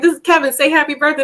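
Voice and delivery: high, coaxing introduction; imitating the sister's high coaxing; excited introduction. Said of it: "she was like".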